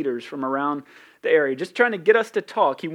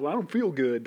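Southern way. Shown as a demonstration. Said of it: "That's the way we say it".

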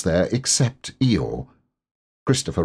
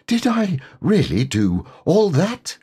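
much higher piglet voice; tiny amazed squeak; high little piglet, wondering; 10 semitones higher than usual. Acted.

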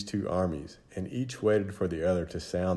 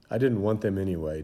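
1 muttered to himself; faster than usual. Acted. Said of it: "David said to himself".

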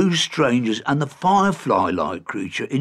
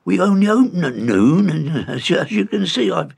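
raised cheerful gruff voice; 7 semitones higher than usual. A narrator's reading. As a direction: boom it out friendly. Innkeeper welcomes leprechaun.

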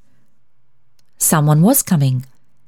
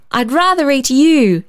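higher, eager playful exclamation; playful cry; 7 semitones higher than usual. Acted. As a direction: tease the boy with delight. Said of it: "she cried".

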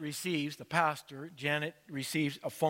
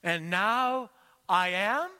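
crying out; 3 semitones higher, 4 dB louder, slower than usual. Retold or imitated. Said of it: "as she cried out loud".

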